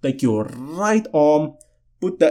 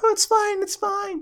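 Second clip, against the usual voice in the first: put-on, very high, squeaky woman's voice; 8 dB quieter than usual. Retelling bumping into a girl and playing her reply: put-on voice for the girl. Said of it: "That's my voice for her".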